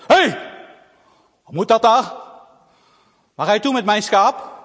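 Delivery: loud angry challenge; angry stranger shouts. Acted. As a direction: bark at the thief girl. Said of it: "een hele boze stem".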